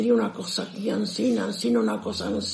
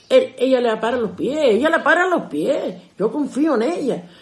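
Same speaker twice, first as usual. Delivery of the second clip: higher and louder, passionate defence; father defending daughter; 4 semitones higher, 6 dB louder than usual. Retold or imitated. Father defending his daughter to the mother, passionate and raised. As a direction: stand up for your grown daughter. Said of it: "father speaks".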